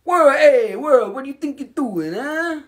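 high, hammed-up scolding of the world with a stone in hand; mock telling off the world. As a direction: pretend to scold the whole world, half-joking. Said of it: "You can be like".

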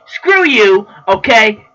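high-pitched, indignant retort; acted huffy outburst; indignant comeback.

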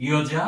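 ইয়জা with opening y sound, 'iyo-ja'; correct pronunciation. Shown as a demonstration. Teacher replaces j with iyo, ইয়জা modelled carefully. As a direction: begin ইয়জা on 'iyo', not j. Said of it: "তাহলে এটির উচ্চারণ হবে".

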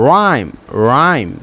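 রাইম said as one clean syllable, no h; রাইম with a silent h, rolled straight through; correct English rhyme. Shown as a demonstration. Teacher to students, demonstrating the right রাইম. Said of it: "এখানে বলতে হবে রাইম".

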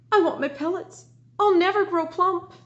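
high, loud complaining rabbit; a small rabbit fretting it won't grow. Acted. Teacher reading to her class, as a high fretful rabbit. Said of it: "a rabbit begin to thump".

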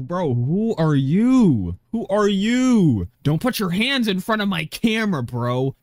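hammed-up impression of the angry filmer; mocking imitation. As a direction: parrot the filmer to make him sound silly. Mocking the vigilante's lines.

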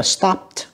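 "stopped" with -ed as /t/; final T sound. Shown as a demonstration. Teacher showing students the ending, "stopped" with final /t/. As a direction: end "stopped" on a t, no extra syllable. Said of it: "cũng là âm tờ".

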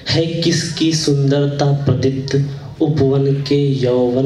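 measured Hindi verse with pauses between lines; poem recitation. Acted. Poet presents a poem on garden beauty to listeners, reciting. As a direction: recite each line deliberately, letting it settle.

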